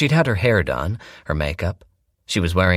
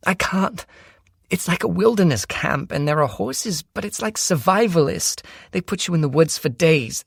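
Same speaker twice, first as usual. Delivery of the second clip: put-on higher, rushed, frightened girl's voice; frightened sister; 11 semitones higher than usual. A narrator's reading. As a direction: blurt it all out in panic. Shelby's frightened rush of words.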